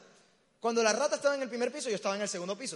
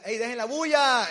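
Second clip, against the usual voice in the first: much louder shout from the bedroom; annoyed yell; 3 semitones higher, 8 dB louder than usual. Retold or imitated. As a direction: yell at the noisy friends to keep it down.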